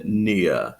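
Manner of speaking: "near" ending in a schwa, no R; received pronunciation. Shown as a demonstration. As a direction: glide "near" into uh. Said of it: "received pronunciation".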